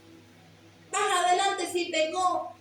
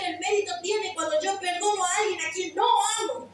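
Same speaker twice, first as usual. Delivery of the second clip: fervent preaching; 3 semitones higher than usual. Acted. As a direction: build the appeal to a passionate peak. Preacher builds to full force.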